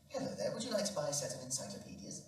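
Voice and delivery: quick, lightly voiced cold caller; salesman caller. Salesman on the phone to the old man, quick pitch.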